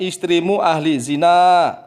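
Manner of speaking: "zina" with the na stretched long; long nun. Retold or imitated. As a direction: hold the final na in "zina" the wrong way. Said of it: "nunnya yang dibaca panjang".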